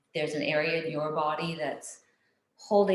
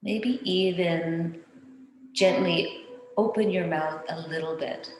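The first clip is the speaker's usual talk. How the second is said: calm meditation voice with long pauses; guided meditation. Real, not acted. Teacher guiding listeners to soften the face, calm meditation.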